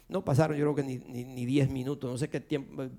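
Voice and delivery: normal talking voice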